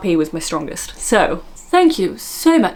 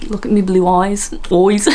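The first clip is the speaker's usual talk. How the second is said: playful attempt at Scottish; Scottish accent. Vlogger showing off her accents, playful Scottish. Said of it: "I'm Scottish".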